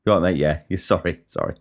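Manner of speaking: mumbled sorry to a stranger in a doorway; mumbled passing sorry. Retold or imitated. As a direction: toss off a sorry as you brush past. Passers-by swapping sorries.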